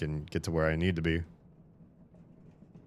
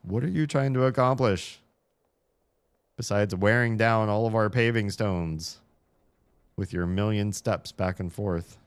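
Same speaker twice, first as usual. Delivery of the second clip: higher, louder mock nagging; higher voiced exasperated bystanders; bugs scolding; 4 semitones higher, 4 dB louder than usual. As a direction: scold her like an annoyed onlooker. Voicing bugs scolding her.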